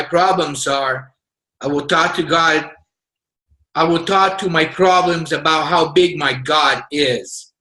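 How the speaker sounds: earnest, measured reading of a faith declaration; unhurried declaration read to the team. Acted. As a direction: read it like a creed you believe. Reads a faith declaration aloud.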